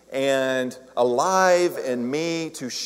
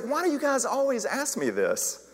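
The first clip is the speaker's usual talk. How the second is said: mock exasperation; 9 semitones higher than usual. Exasperated at repeated bull question.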